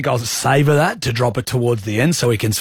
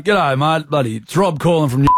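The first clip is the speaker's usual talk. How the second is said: bush Australian accent. Shown as a demonstration. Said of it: "I'll give it a bit more bush".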